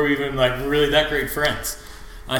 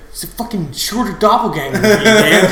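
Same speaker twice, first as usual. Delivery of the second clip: a high, loud mock-indignant actor voice; imitating the character; 8 semitones higher, 8 dB louder than usual. Fan quotes the car-scene character, higher and loud. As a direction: play the outraged stuck actor. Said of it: "he's like".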